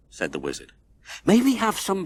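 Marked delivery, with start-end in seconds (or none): 1.2-2.0 begging neighbors. A narrator's reading. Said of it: "begged the neighbors".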